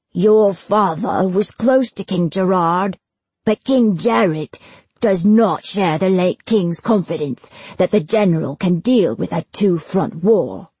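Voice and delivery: lightly voiced official, pressing each point; insistent bailiff Granger. Bailiff pressing Destin about his father, insistent. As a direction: push on with weighty emphasis.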